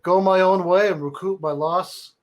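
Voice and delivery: a hint of New York bro reading; New York accent. Reading Nick's email in a mild New York accent. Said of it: "wanna do a New York accent".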